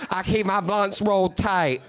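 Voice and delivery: high, laughing dopey gangster voice; Steve impression. Mocking Steve reading his yearbook quote, high and hammed-up. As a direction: ham up the dumb hill kid's tough-guy quote. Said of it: "Motherfucker's like".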